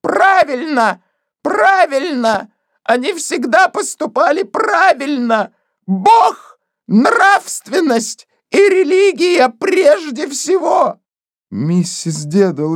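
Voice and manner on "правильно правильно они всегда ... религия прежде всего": higher, slow, rising to a shout; a pious woman shrieking in fury; shrill outcry. Acted. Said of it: "выкрикнула в лицо мистеру Кейси". (гневный выкрик, выше и громче)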